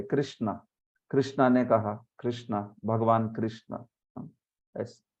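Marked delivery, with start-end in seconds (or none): 0.0-3.9 कृष्णा said as kri-shna with a short i and a final long aa; Hindi-style Krishna. Shown as a demonstration. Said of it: "Hindi वाले लोग ... क्री बोलते".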